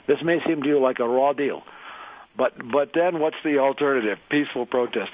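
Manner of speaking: lightly attempted Russian accent. Host reading his friend's essay on air, light Russian accent. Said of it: "I'm sure he liked the Russian accent".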